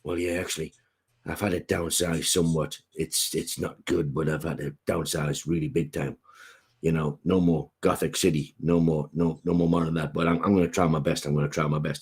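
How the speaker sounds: lightly voiced, mopey caped hero admitting he downsized; retelling a sketch, a sagging low Batman voice; imitating Batman. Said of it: "he's talking like this".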